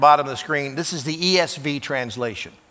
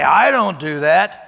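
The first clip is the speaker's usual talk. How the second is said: self-righteous denial; 5 dB louder than usual. Retold or imitated. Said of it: "and say".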